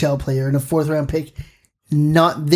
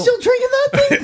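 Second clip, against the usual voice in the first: surprised. Real, not acted. Shocked at friend drinking.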